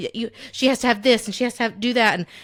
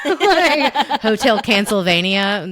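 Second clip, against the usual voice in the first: loud, laughing through the words; 2 semitones higher, 6 dB louder, slower than usual. Real, not acted. Host amused by her own kids' show references, laughing. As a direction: get it out through a burst of laughter.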